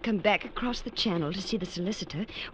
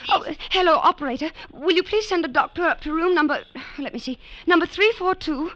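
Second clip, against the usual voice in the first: higher, louder urgent begging; desperate pleading; 8 semitones higher, 8 dB louder than usual. Acted. Daughter begs the operator to send a doctor, desperate.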